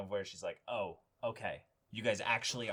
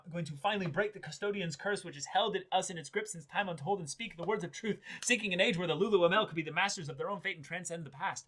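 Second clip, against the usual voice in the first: lofty proclamation pitched higher; grand villain speech; 6 semitones higher than usual. Retold or imitated. Host reciting the show's villain speech in a lofty, higher voice. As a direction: declaim it like a villain's grand monologue.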